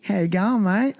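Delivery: a touch of nasal Aussie twang, lightly put on; mock the Aussie nose voice. To a fellow Aussie, teasing their own accent: light nasal Aussie. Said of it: "Oh, nasal?".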